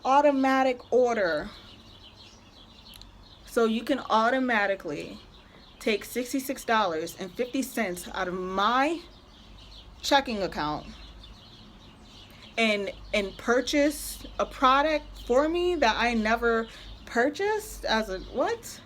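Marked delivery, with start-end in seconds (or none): 0.0-1.5 high, breezy dismissive voice; mock company rep. Imitating the company rep excusing the charge, high and breezy. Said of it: "They were like". 18.3-18.8 incredulous what. Real, not acted. Outraged at the charge.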